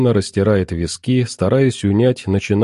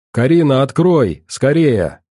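raised, mildly shouted plea; urgent calling; 4 semitones higher than usual. Acted. Husband outside urges wife to open, calling urgently. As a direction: call out in short urgent bursts.

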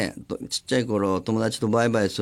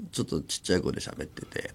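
hushed request; 8 semitones lower, 7 dB quieter than usual. Retold or imitated. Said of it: "とかさ".

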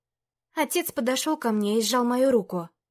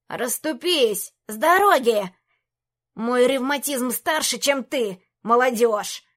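put-on grumpy old man; 4 dB louder, slower than usual. Old mage pushes through crowd.

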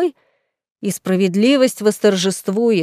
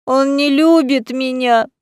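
put-on drunken lament; 4 semitones higher, slower than usual. A narrator's reading. Drunk lady lamenting love.

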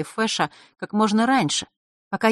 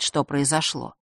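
ordinary delivery, nothing marked

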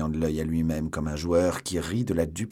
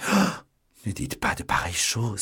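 mock sobbing cry; 3 semitones higher than usual. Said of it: "en éclatant en sanglots".

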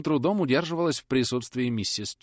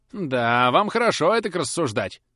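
loud, higher, still sharp; softening anger; 7 semitones higher, 8 dB louder than usual. A narrator's reading. Susan answering Polly, cross but softening. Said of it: "несколько смягчившись".

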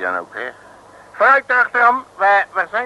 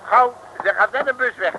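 louder urgent call; 4 semitones higher, 5 dB louder than usual. Acted. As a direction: hurry them onto the bus. Urging to catch the bus.

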